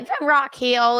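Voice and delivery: South Carolina Southern twang; Southern accent. Shown as a demonstration. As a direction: slip into a hometown Southern accent. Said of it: "a little more Southern".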